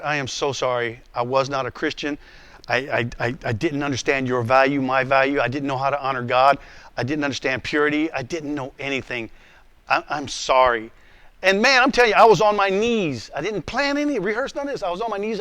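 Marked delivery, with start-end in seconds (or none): 0.1-10.9 low, subdued confession; earnest retold apology; sincere apology. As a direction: apologize humbly, pitched down. Retold tearful apology to his wife.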